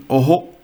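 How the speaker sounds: "Oho" said as the German name of O; German letter name. Shown as a demonstration. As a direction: say "Oho" with a long, round German o. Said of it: "is pronounced as".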